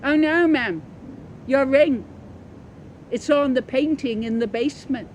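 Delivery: urgent to tell about the ring; excited little organist. Acted. Narrator voices the tiny organist.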